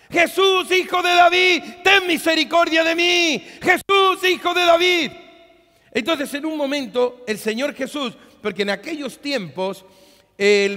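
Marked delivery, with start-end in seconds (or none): 0.1-5.1 much higher, much louder desperate scream; screaming for mercy. Retold or imitated. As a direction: shriek over the crowd as Bartimeo. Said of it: "chillaba, clamaba, gritaba".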